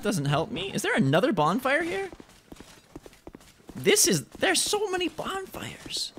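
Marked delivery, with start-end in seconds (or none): 4.4-6.1 whisper. Real, not acted. Unvoiced aside.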